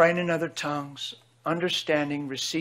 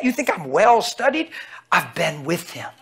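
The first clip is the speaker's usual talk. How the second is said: ordinary delivery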